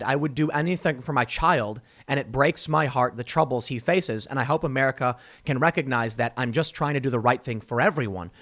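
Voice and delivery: earnest, subdued mock confession; sincere plea. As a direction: speak gently, like a father owning up. Imagined Biden heartfelt public statement.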